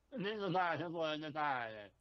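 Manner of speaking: lightly faked Italian patter; mock Italian accent. Shown as a demonstration. Co-host carries on his demo, mock Italian accent. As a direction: keep up a playful fake Italian accent. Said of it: "Let me hear your Italian".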